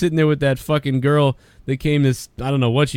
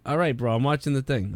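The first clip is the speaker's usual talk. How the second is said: mock annoyed J D; 2 semitones lower, 7 dB quieter than usual. J D ignoring Tommy's camera, soft mumble. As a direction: mutter it away, bored. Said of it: "Jay's like".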